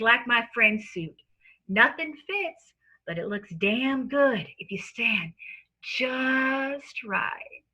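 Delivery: sleazy lawyer with a fake Southern accent. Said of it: "dons a false Southern lawyer accent".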